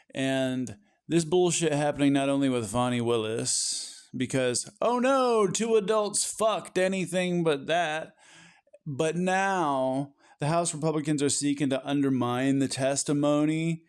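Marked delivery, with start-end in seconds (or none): 4.8-8.1 fake-shocked eye-roll at the scandal; sarcastic mock horror.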